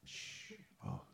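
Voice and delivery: urgent whispered scolding; whisper yelling. Real, not acted. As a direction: hush them in a hiss. Quiet time whispering.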